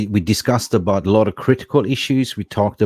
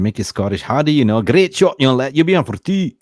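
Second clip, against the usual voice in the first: Simon Heron's voice; 3 semitones higher, 7 dB louder than usual. Retold or imitated. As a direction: praise the young lad like a cheery old coach. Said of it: "Simon Heron said".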